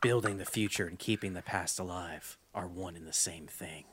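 whispered low soldier line; Snake impression. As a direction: breathe it deep and gravelly. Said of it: "That's actually kinda deep".

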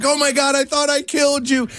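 retold crying relief. Teller relives hugging the revived boy, mock tearful relief. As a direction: imitate blurting through tears, lightly. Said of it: "I'm crying".

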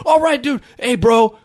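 mock perky server calling you bro; spunky server. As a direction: toss it off like a chummy counter guy. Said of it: "then they bro you".

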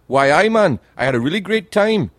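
rough attempt at Geordie; Geordie accent. Shown as a demonstration. Showing how Newcastle people speak, rough Geordie accent. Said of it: "I can't do the accent. They've got the best accent ever".

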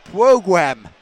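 loud "Programme" with w for each r; mock "Programme" as "pwogwamme"; Jonathan Ross. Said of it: "programme like Jonathan Ross".

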